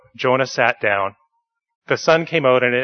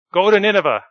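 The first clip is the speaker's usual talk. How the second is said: commanding God; 8 semitones higher, 5 dB louder, faster than usual. Acted. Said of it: "God said to Jonah".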